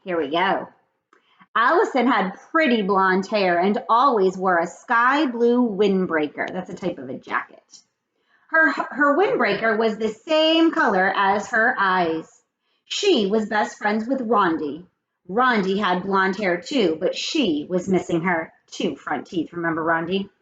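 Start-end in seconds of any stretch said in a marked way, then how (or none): 1.6-6.5 put-on clear, measured read-aloud for children; read-aloud storytelling. A narrator's reading. 8.5-19.5 put-on clear, measured read-aloud for children; read-aloud storytelling. A narrator's reading.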